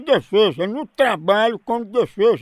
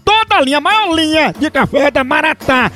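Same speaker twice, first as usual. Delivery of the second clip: upbeat radio ad pitch; radio ad read. Acted. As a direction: sell the coffee brightly. Reads live coffee ad.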